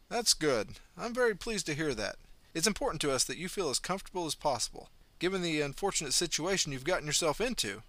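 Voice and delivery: a kindly doctor, reassuring and easy; kind doctor, lightly voiced. Doctor reassuring his patients, in a lightly voiced friendly tone.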